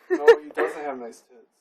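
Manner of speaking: loud protest. Real, not acted. Protesting friend's wrong retelling.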